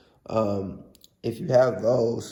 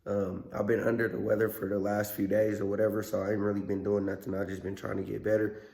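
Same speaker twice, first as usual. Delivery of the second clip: rough, hoarse voice from a cold; 4 dB quieter than usual. Real, not acted. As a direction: talk through a sore, hoarse throat. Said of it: "I apologize for my voice".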